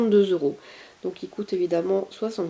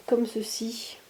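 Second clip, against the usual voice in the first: whisper; 5 dB quieter, slower than usual. Real, not acted. Showing the outfit softly.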